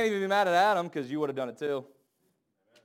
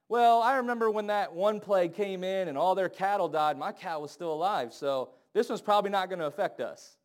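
louder, higher carefree bragging; complacent Israelite; 4 semitones higher, 4 dB louder than usual. Retold or imitated. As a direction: brush it off like a smug neighbor. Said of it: "some Jew to sit there and go".

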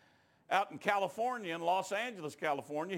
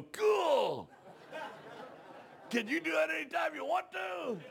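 amazed cheer; 9 semitones higher than usual. Retold or imitated. Weightlifters reacting, mocked.

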